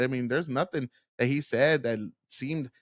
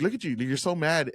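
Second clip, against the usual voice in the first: mocking taunt. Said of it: "child's play way of debating".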